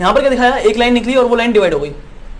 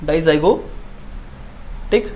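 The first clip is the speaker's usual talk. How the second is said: dizygotic stretched very slowly, each syllable held, softer and lower; drawn-out term; 4 semitones lower, 5 dB quieter, much slower than usual. Shown as a demonstration. Teacher spelling the term out for students, very slow and drawn out. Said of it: "teacher names twin type".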